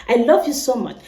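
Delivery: "I love you so much" in a Nigerian accent, love said "luv". Shown as a demonstration. Nigerian vlogger showing fans her home accent. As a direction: Nigerian accent, plain and even. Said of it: "This is how we say it in Nigeria".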